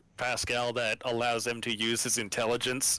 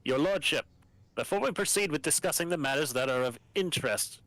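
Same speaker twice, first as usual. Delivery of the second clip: lightly voiced formal governor; a hint of a stern military governor; Medina voice. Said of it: "You can voice Medina".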